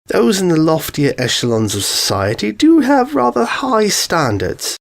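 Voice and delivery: a lightly voiced refined lady, prim and scolding; Rarity voice. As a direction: lift into a prim, proper lady's tone.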